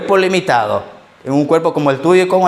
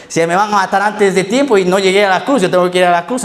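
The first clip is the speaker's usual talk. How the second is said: Jesus' resolve; 4 semitones higher than usual. Acted. Preacher voices Jesus' inner resolve.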